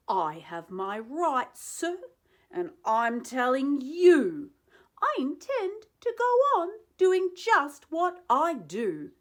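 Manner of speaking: loud, rising angry tirade; defiant yelling. Acted. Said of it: "I yelled at the Lorax".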